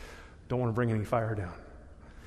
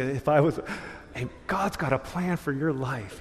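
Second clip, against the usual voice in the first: mock pastor line. Man tries on a lightly voiced pastor's line. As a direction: lean into it like a pastor's blessing. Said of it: "it's funny hearing me say".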